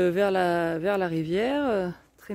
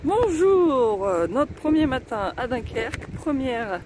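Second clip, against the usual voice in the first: shouting over wind; 3 semitones higher than usual. Real, not acted. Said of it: "je suis désolée s'il y a du bruit".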